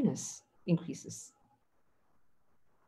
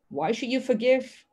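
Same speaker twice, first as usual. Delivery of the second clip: vengeful voice; 3 semitones higher than usual. Retold or imitated. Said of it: "that may be saying to you".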